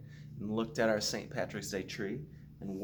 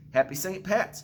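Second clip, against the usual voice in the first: Jamie's cheery greeting; 10 semitones higher, 6 dB louder than usual. A narrator's reading. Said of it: "Jamie said".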